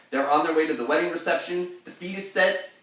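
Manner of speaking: high, loud, fast excited telling. Shown as a demonstration. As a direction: rush it out with mock excitement. Mock-dramatic retelling.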